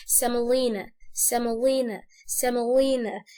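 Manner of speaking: سامولينا repeated evenly with the O reduced to a weak vowel; unclear O. Shown as a demonstration. Teacher drilling for learners to copy, weak O in سامولينا. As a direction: repeat سامولينا as "semalina", falling at the end. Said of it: "الاو دي مش هنوضح نطقها".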